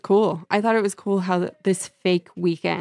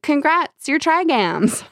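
mock cheerful reveal; 8 semitones higher, slower than usual. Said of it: "And they're like".

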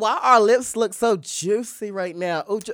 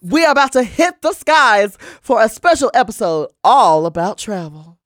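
airport announcement; 8 dB louder than usual. Pretend. Mock flight attendant intro.

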